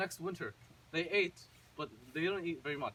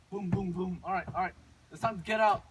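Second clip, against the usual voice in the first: rousing; 6 dB louder than usual. Acted. Mother bangs, rousts children awake.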